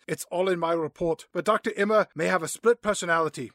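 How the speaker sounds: lightly put-on German accent; improvised mock German accent. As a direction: play Father with a hint of German. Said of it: "give her a German accent".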